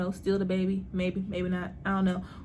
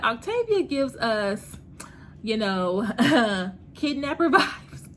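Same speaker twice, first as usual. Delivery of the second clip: teasing fan quote; slower than usual. Retold or imitated. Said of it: "everybody was like".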